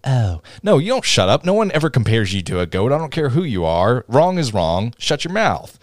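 a hint of defiant anger; mock scolding. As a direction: scold him playfully. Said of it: "And she's like".

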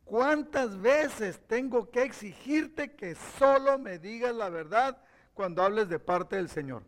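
slow, exasperated demand; acted royal exasperation; harsh reply. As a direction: spell it out sternly, stretching the first words. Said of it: "le respondió con dureza".

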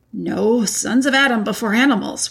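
voiced stage whisper in character; lightly acted whispered protest; whispering beaver. A narrator's reading. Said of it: "whispered Mister Beaver back again".

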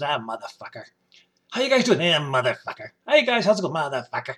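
lightly voiced immigrant workers' accent; a hint of foreign workers' banter; broken-English workers. A hint of a foreign accent as the laundry guys greet him. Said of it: "They didn't speak much English".

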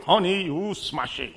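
softly voiced, lightly acted admiration; mock admiring spouse. Spouse looking at a well-dressed partner, lightly acted admiration. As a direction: play at admiring your partner, voice dropped.

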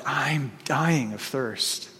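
put-on weary girl. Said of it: "And she replied".

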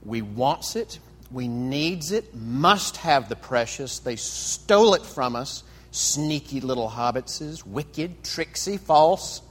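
slow, lightly voiced sinister creature; Gollum. Creature craving his stolen precious, lightly voiced and sinister. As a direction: draw out each word like a scheming little creature. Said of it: "First, Gollum".

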